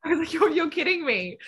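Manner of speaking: high, laughing mock outrage; laughing disbelief. Distance swimmer seeing the sprinters' easy set, laughing disbelief. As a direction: stretch it out incredulously through a laugh.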